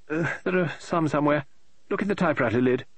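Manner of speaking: high, fussy woman's voice, rising in exasperation; an eccentric lady author tearing her hair; fretting novelist. Acted. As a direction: novelist complaining aloud about her plot, high and exasperated. Mrs Oliver vague hospitality.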